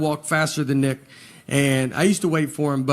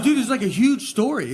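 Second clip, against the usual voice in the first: excited insistence; 6 semitones higher than usual. Retold or imitated.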